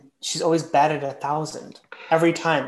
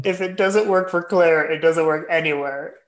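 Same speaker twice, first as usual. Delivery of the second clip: mock solemn. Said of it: "'Cause that's brilliant".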